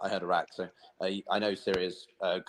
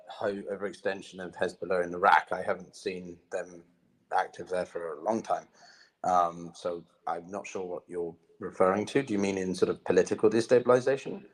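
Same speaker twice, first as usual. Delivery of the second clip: bad connection. Real, not acted. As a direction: voice cutting out on a bad line. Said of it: "your voice cut out".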